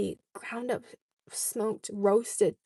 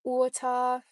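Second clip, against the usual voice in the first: "Water" as said in Trinidad, r dropped; Trinidadian accent; 2 semitones higher, 4 dB louder than usual. Shown as a demonstration. Repeating the word for viewers, Trinidadian accent. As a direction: give "Water" a Trinidadian sound. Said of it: "In Trinidad, we say water".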